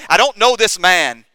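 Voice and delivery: "I don't know this man" loud and high; vehement denial. Retold or imitated. Peter swears to his accusers, loud vehement denial. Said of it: "We also read that Peter swore".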